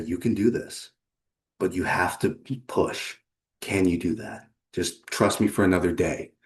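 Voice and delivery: steady them gently, with small pauses; reassuring. Acted. Coach with hand on client's shoulder, gently reassuring.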